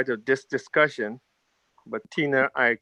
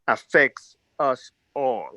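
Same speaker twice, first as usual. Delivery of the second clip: slow, leaning hard on "all"; stress on all; slower than usual. Shown as a demonstration. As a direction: land the word "all" slowly and firmly. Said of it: "and I emphasize the word all".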